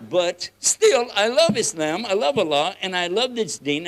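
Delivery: fervent declaration. Real, not acted. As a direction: proclaim your love with joy. Sincere outburst of love for faith.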